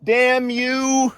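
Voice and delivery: high, loud mock anger; mock curse. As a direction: shake a fist at the geese. Cursing the geese.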